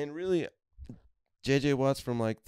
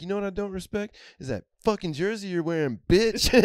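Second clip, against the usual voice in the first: much higher put-on angry voice; mock furious buddy; 11 semitones higher, 5 dB louder than usual. Heated buddy cursing out the old Pirates fan, high mock fury. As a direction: hurl the insult in a squeaky rage.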